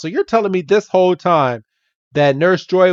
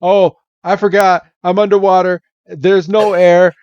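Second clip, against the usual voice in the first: sudden realization; 4 semitones higher than usual. Retold or imitated. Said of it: "And Ash is like".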